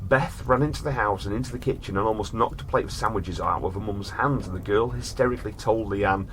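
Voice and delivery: measured storyteller reading; story narration. A narrator's reading. Host reads a strange case to his brother in storyteller voice.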